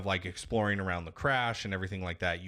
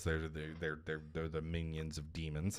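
hushed, secretive whisper; conspiratorial whisper; 4 semitones lower, 8 dB quieter than usual. Real, not acted. Host whispering a mock conspiracy about squirrels. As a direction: share a dark secret about squirrels under your breath.

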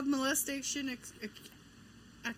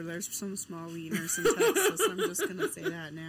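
laughing; 2 semitones lower than usual. Real, not acted. Joking while laughing.

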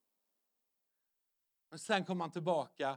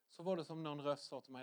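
ordinary delivery

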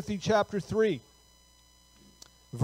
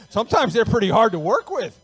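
louder, laughing through the words; 4 semitones higher, 10 dB louder, faster than usual. Real, not acted. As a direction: crack up while saying it. Joking about difficult Christians, laughing.

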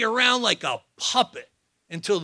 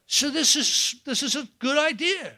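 smug self-convincing; 8 semitones higher than usual. Retold or imitated. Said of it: "I thought".

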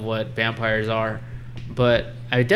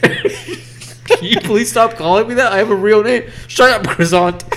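mock French guy; 7 semitones higher, 5 dB louder than usual. Acted Balky and bully exchange.

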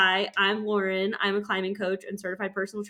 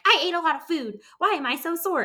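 whiny mock self; 9 semitones higher, 4 dB louder than usual. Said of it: "I'm like".

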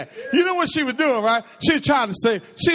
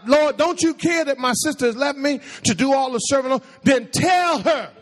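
raised-pitch imitation of a bossy sister; cold, bossy demand; 4 semitones higher than usual. Preacher acts out Martha ordering Jesus to intervene, bossy. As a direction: act out her complaint, dragging out the final order. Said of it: "That girl is cold".

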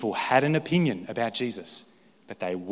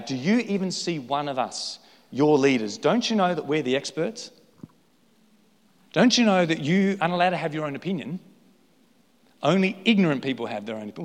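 disdainful; 2 semitones higher than usual. Acted. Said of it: "The disdain there is quite palpable in their voice".

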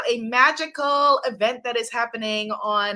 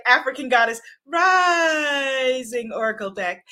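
shouted title; 2 semitones higher than usual. Shown as a demonstration. Host teaching viewers to shout the deck name, booming announcer call. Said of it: "you have to say it like that".

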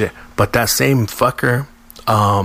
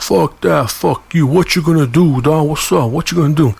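high, goading mock shouting; imitated loud talk; 6 semitones higher than usual. Harry daring the mechanic across the counter, imitated loud taunting. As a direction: act out a loudmouth picking a fight. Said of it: "talking all fucking loud".

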